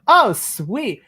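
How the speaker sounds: pleased relief. Acted. Sam seeing Phineas down the hallway, pleased relief. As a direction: greet a welcome sight, pitch up then falling.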